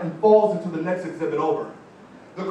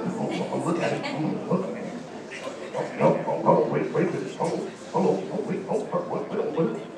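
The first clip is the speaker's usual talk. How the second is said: mock straining; 4 semitones lower, 4 dB quieter than usual. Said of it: "try to give your cell phone power".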